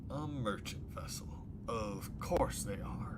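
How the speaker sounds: dry disbelief, slowing at the end; sceptical echo. Acted. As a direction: echo the claim doubtfully, then drag it out. Sceptical echo of the caller's claim.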